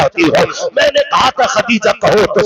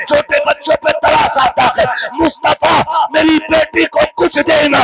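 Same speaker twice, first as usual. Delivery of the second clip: anguished plea; 2 semitones higher than usual. Acted. Khadija's dying plea for Fatima.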